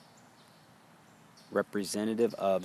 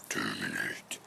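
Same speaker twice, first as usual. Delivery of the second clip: "Terminate" dropped much lower; 11 semitones lower, 3 dB quieter than usual. Shown as a demonstration. Teacher showing the breath ending, with a deep low "Terminate". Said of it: "Terminate, create".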